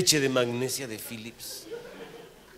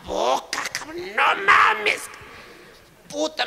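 higher, louder disbelieving yell; shocked outburst; 12 semitones higher, 4 dB louder, slower than usual. Real, not acted. Reacting to his general's kiss, a shocked yell. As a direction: blurt out your shock.

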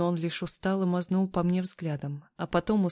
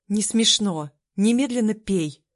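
angry order; 3 semitones higher, 6 dB louder than usual. A narrator's reading. Scolding a laughing, dying friend.

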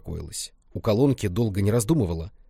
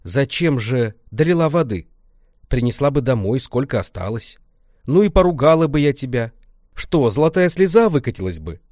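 put-on higher, louder old granny scolding; granny's reproach; 4 semitones higher, 5 dB louder than usual. Grandma reproaches Lenka about the water, granny voice. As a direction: chide her gently like a granny.

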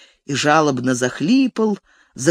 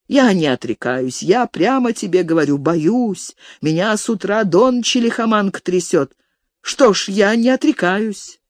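lightly voiced fearful old man; frightened old steward; 4 semitones higher than usual. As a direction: plead as a cowardly old steward, mildly whining. (трусоватый старик, слегка жалобно)

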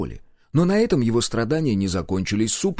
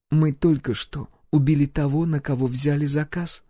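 calm; 5 semitones higher than usual. Acted. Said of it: "спокойно ответила Гюрза".

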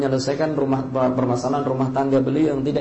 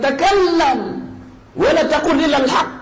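high, loud furious repeat; angry father; 14 semitones higher, 5 dB louder than usual. Retold or imitated. Abu Bakar repeating his daughter's words, angry. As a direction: spit her words back in outrage.

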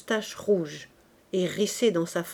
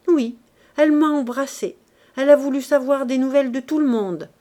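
louder, higher, mocking gossip; a hint of a sneering storyteller; lightly voiced Lantier; 4 semitones higher, 5 dB louder than usual. Lantier mocking Nana's ways. (Lantier se moque de Nana devant Gervaise, voix plus forte)

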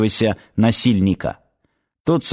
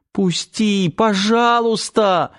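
high-pitched, drawn-out plea; pleading; 9 semitones higher, slower than usual. A narrator's reading. Girl begging her attacker to let go, pleading. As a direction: beg in a high, frightened voice. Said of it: "взмолилась девушка".

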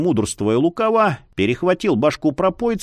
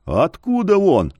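insistent; 3 semitones higher than usual. Acted. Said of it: "не унимался ледорез".

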